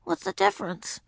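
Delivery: quiet, small subdued question. Acted. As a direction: ask it meekly. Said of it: "Ramona was suddenly subdued".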